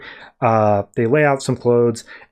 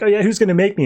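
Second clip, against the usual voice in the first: higher mock defiance; fake arguing; 5 semitones higher, faster than usual. Harley argues back at Cindy for show, defiant. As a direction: play a staged dare back. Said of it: "they're just arguing with each other".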